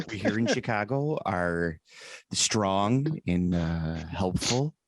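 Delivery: a hint of a folksy radio storyteller; Garrison Keillor. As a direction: homespun Minnesota radio narrator, unhurried. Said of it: "Garrison Keillor talking about Lake Wobegon".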